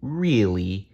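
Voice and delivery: level, smiling "Really"; smiling reassurance. Acted. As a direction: confirm it kindly. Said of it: "with a big dinosaur smile".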